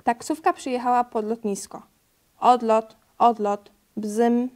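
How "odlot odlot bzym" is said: loud, excited cheer at takeoff; punchy, gleeful exclamations; excited little Gregor. A narrator's reading. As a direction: play a delighted child imitating a plane. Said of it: "cieszył się Gregor".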